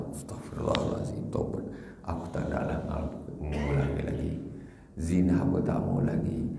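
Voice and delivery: hushed, breathless repentance; soft whispered vow never to sin again; remorseful murmur. Retold or imitated. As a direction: murmur it like a contrite sinner. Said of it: "begitu dia merasa".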